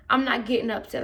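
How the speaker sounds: mildly restrained denial; calm. Retold or imitated. Student to coach calling her rowdy, calm. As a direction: deny it in a composed, even voice. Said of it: "I was talking in my calmest voice".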